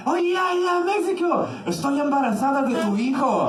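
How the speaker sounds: put-on Balkan girl's telenovela Spanish. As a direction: play it like a lovestruck soap heroine. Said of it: "telling me things like".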